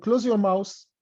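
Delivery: "mouse" said for mouth in close your mouse; th turned to s. Shown as a demonstration. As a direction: swap the final th of mouth for s. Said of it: "الثاء بتنطق اس". (نطق mouth في الجملة "ماوس")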